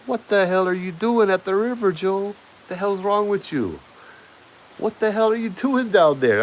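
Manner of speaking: high, loud shouted call across the yard; shouting from far off. Retold or imitated. Girlfriend yelling from the gate at him, high and loud.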